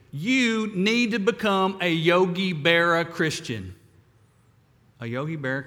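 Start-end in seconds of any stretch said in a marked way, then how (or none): 0.1-3.7 put-on thick Brooklyn accent, louder and punchy; a Brooklyn pal's blunt Brooklyn accent advice. Billy telling depressed Ed on the phone, Brooklyn accent. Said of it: "in this thick Brooklyn accent".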